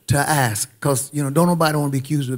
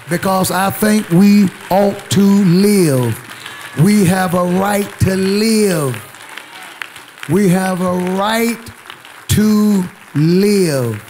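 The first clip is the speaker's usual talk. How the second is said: emphatic preaching; 3 semitones higher, 4 dB louder, slower than usual. Real, not acted. Pastor affirming life to his congregation, emphatic preaching. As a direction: preach it with firm, measured weight.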